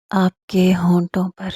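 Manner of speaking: slow intimate whisper. Acted. He answers her, a slow intimate whisper. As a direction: breathe the words slowly. Lovers' murmured night talk.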